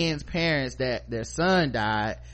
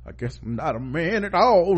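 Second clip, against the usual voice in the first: mock wounded; 5 semitones higher, 4 dB louder than usual. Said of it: "got all up in his feelings".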